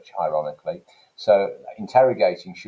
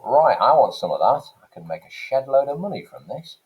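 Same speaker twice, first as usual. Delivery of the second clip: William Caxton; 6 semitones higher, 5 dB louder than usual. Acted. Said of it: "and thought".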